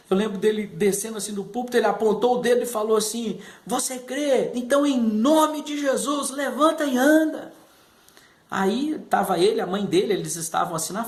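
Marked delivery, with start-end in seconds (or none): 3.6-7.5 pastor's command. Retold or imitated. Pastor commanding the boy in his wheelchair to rise and walk, forceful preacher call.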